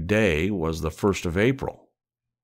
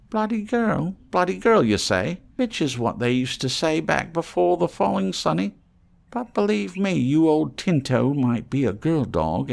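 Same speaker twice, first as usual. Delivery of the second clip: much higher, louder cockney rant; shrill ranting trader; 8 semitones higher, 5 dB louder than usual. Acted. Reno boasting to the mole about his dog, high and loud.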